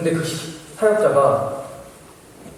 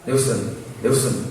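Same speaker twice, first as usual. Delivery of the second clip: understated, unbothered name call; casual calling; slower than usual. Retold or imitated. Student calling the man after his threat, feigned nonchalance. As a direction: call him as if nothing happened. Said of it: "아무렇지도 않게 그 사역자를 불렀습니다".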